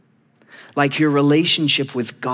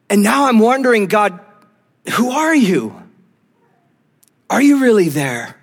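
raised, insistent lament to God; doute douloureux; 4 semitones higher than usual. Acted. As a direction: plead with God as trust gives way. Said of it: "part of you is like Asaph saying".

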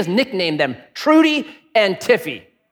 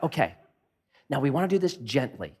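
gentle instruction; 5 semitones lower, 10 dB quieter than usual. Retold or imitated. Voicing the lady, gently.

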